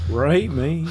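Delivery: sung with a Southern twang; country drawl on the lyric; country accent. Pretend. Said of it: "Specifically with that accent".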